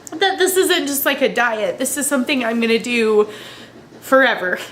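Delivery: tearful, voice breaking, talking through tears; crying while trying to keep talking; snotty crying. Real, not acted. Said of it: "I'm sorry to cry about it".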